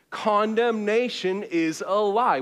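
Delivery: like you mean it. Shown as a demonstration. Preacher leading the congregation to mean it. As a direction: declare it with conviction. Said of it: "Say it like you mean it".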